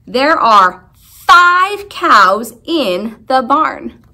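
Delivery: "five" slow and emphasized; slow it down and lean on "five"; teacher stressing "five". Shown as a demonstration. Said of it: "how many cows".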